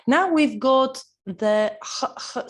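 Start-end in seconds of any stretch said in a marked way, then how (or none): 1.8-2.5 isolated breathy "h", repeated; H sound demo. Shown as a demonstration. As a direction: say "h, h" as separate sounds, like the start of house. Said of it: "sound like house".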